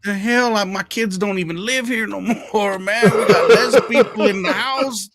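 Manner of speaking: indignant complaint. Retold or imitated. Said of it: "I said".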